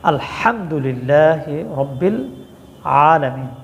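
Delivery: measured recitation stressing the heavy ha of "আলহামদুলিল্লাহি"; careful tajweed. Shown as a demonstration. Teacher showing where viewers go wrong, careful throaty ha in "আলহামদুলিল্লাহি". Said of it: "এখানে বড় হা উচ্চারণ করতে হবে".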